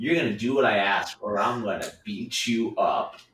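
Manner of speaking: super-sarcastic, dripping with sarcasm. Retelling own past joking words to coworkers: imitating own sarcastic threat. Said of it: "I was being super sarcastic".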